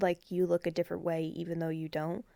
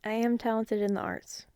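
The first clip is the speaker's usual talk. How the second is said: whispered playful boast; mock smug whisper; 3 semitones higher, 4 dB quieter than usual. Real, not acted. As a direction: brag it under your breath. Joking self-praise whisper.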